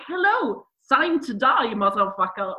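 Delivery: hammed-up, not-great German accent; bad German accent. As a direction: put on a clumsy German accent. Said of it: "that's my German accent. It's not great".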